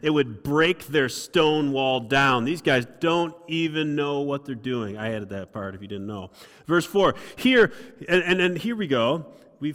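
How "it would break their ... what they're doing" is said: mocking tone. Tobiah scoffing at the builders, slow mocking taunt. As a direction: sneer at the flimsy wall. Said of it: "in a mocking tone".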